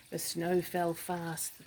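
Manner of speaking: slow, measured bedtime reading; slow narration. A narrator's reading. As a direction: let each word fall slowly.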